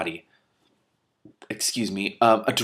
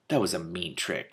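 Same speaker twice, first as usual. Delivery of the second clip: faint fading voice; 4 semitones lower, 7 dB quieter than usual. Acted. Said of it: "a mere speck of sound disappearing".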